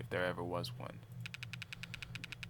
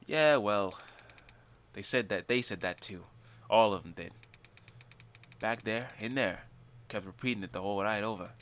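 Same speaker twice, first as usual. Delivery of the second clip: Carlos voice. Acted. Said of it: "I'm trying to think of a Hispanic accent".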